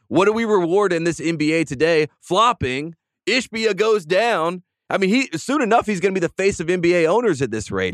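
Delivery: fired-up sports pundit ranting. Real, not acted. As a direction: ramp up the outrage, getting heated. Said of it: "You were very fired up".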